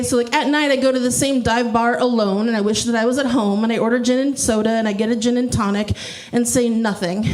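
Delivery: rhythmic, running poem cadence; mock-earnest spoken-word recital; parody slam poetry. Shown as a demonstration. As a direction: recite in linked lines toward a dropped ending.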